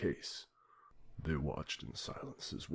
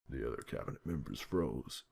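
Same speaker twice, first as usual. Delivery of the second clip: plain reading voice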